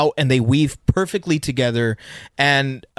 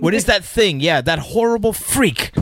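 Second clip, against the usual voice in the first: higher, recoiling at the horrible freak; mock horrified villain; 7 semitones higher than usual. Acting villain horrified at hero.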